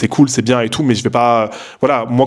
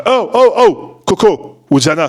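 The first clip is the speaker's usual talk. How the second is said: high, sharp call across the room; calling out to pet; 7 semitones higher, 4 dB louder, slower than usual. Real, not acted. Vlogger to a pet scratching the sofa, calling out. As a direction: interrupt yourself to call off the pet. Interrompt pour rappeler son animal qui gratte.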